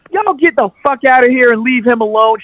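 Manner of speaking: hammed-up cashier throwing them out; tough cashier lady. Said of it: "lady that comes".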